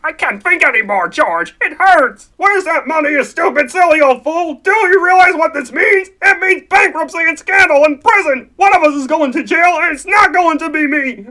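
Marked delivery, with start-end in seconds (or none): 2.4-11.2 put-on loud, raging at the old fool; furious shout. George berating Uncle Billy over missing money, furious shout. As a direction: yell it in fury.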